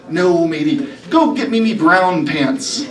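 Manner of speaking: pirate captain punchline. Acted.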